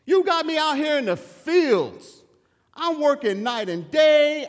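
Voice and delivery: resentful complaint. Retold or imitated. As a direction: pile up every chore like a bitter son. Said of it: "he lost his devotion for his father, but yet he says".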